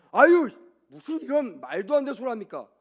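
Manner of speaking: mock rebuke opening on a high, loud burst; scolding protest. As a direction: Peter indignantly telling off his teacher. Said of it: "꾸짖고 비난한 거예요". (꾸짖듯 항변하는 연기)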